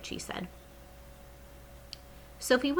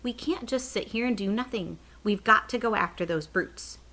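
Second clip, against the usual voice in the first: cried out; 4 semitones higher than usual. Acted. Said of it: "she stood up and cried out".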